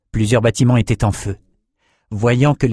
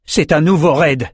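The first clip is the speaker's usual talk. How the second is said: higher-pitched call of alarm; urgent call, pitched up; alarmed warning; 5 semitones higher than usual. Acted. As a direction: warn the others of an attack. Villager warns of a raid.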